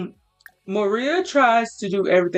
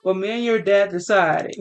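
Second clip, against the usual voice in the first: mom shouting; 3 semitones higher, faster than usual. Acted. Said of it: "She's like".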